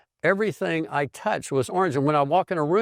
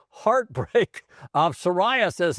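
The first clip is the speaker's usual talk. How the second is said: heartbreak drawn out slowly, a little higher; emphasized heartbreak; 5 semitones higher, slower than usual. Retold or imitated. Dermatologist breaking the diagnosis to Don, heartbreak stressed slowly. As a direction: lean on heartbreak like grave news. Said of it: "he emphasized the word".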